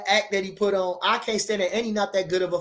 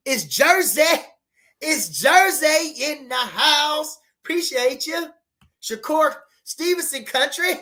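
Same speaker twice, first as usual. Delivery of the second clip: hype shout-out; 5 semitones higher, slower than usual. Real, not acted. Calling out hometown hype.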